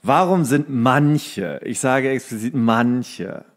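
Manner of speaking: slow, drawn-out question ending in a whisper; dramatic announcement. Acted. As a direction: build suspense, then drop to a whisper. (langsam und dramatisch, am Ende geflüstert)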